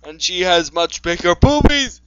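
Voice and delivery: loud, high mock-epic narration; dramatic story reading.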